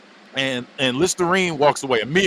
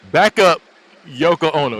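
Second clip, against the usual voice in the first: retold comeback; 3 semitones higher, 7 dB louder, slower than usual. Quoting the snappy comeback to waiter.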